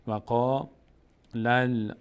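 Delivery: وقا linked to لل with a lengthened lam; joined recitation. Shown as a demonstration. Teacher repeating the join for learners, وقا لل linked and held. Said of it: "باید بچسبه به لام".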